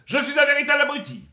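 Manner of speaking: high, loud declaration; proud silly announcer cry; shouted catchphrase. Acted. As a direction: belt out the game catchphrase. Catchphrase for the game.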